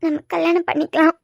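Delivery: a tearful proposal. Acted. Proposes marriage to him instead of explaining, tearful. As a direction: say it while crying. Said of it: "இப்ப எதுக்கு அழுறா?".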